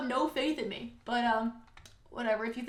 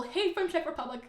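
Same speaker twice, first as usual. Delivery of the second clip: amused mock quote; 5 semitones higher than usual. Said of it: "I like the little".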